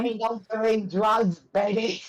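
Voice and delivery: high, slow flirty voice; slow lounge-lizard come-on; flirty put-on voice. Joking in a put-on voice.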